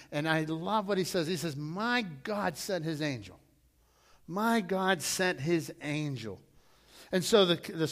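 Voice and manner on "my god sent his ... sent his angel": Daniel. Retold or imitated. Quoting Daniel lovingly.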